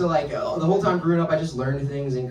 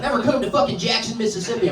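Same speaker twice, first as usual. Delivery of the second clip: raised-pitch imitation of a threat; mock death threat; 5 semitones higher than usual. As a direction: imitate an online hater warning you off. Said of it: "death threats from a guy being like".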